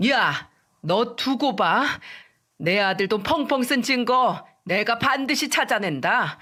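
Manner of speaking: through gritted teeth. Acted. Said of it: "이를 악물고 말했어요".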